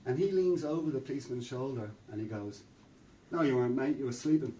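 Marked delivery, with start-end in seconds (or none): 3.3-4.5 put-on London accent. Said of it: "is a young guy from London".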